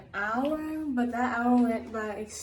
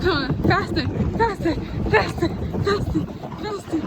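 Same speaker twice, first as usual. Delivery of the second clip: urging on; 5 semitones higher, 3 dB louder than usual. Real, not acted. Urging on the paddle boat.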